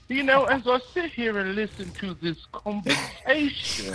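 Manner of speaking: put-on Aussie accent. The caller joking to the hosts in an Aussie accent. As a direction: slip into a playful Australian accent. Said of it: "if I could do an Aussie accent right now".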